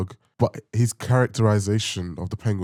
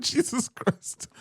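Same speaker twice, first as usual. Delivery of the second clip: whisper; 3 dB quieter, much slower than usual. Retold or imitated. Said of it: "The whispers are finishing me".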